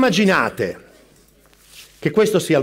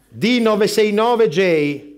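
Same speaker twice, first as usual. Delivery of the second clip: slow spelling; much slower than usual. Acted. Spelling a code letter by letter.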